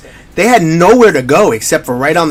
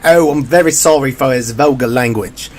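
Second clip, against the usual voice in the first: mock English commentator's apology; lightly put-on, polite English accent; 3 semitones lower than usual. Commentator apologizing for players' cursing, in an English accent. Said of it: "in his little English accent".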